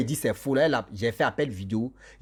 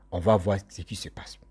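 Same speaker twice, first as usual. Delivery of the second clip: hushed, breathy aside, barely voiced; whisper; 7 semitones lower than usual. Husband on the phone, whispering his plan.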